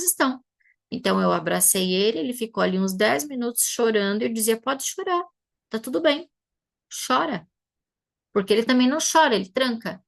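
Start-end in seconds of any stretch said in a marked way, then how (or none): 4.6-7.5 higher, tender coaxing to let him cry; gentle reassurance. Retold or imitated. Mother comforting her crying son in her arms, tender.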